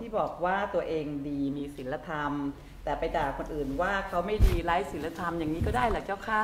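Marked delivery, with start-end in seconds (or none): 2.8-6.4 a touch of sarcasm in the polite question; sarcastic tone. Real, not acted. Host's co-presenter asks the teacher a question, lightly sarcastic. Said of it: "ไม่ต้องทำเสียงประชดประชันนะตุ๋ย".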